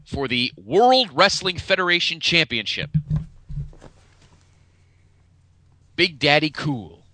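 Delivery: playful, stretched-out match billing; mock ring announcer. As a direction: draw out the title like a main-event introduction. Mock-announcing the main event title match.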